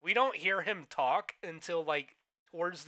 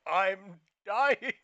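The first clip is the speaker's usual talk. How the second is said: put-on dying old man; 5 semitones higher, 8 dB louder than usual. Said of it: "on his fucking deathbed going".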